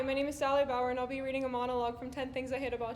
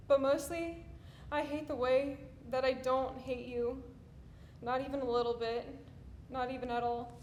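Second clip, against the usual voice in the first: subdued confession; 5 dB quieter than usual. Acted. Hate monologue turns to confession.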